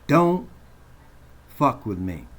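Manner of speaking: a real shouted warning; shouted threat. Real, not acted. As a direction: bark the warning.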